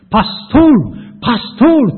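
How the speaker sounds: high, loud call to wake him; calling out a name. Retold or imitated. Voice calling his name awake. (高く大きな声で呼びかける)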